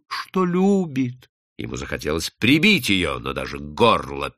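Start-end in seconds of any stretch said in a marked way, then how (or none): 0.1-1.3 high, slow, drawn-out words; slow, estranged-sounding high voice; strange, unsteady voice. A narrator's reading. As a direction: let the voice go high and unnatural. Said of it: "повторила чужим неверным голосом".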